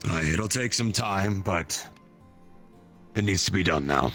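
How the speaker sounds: commanding officer giving orders; military officer. Acted. Colonel gives orders.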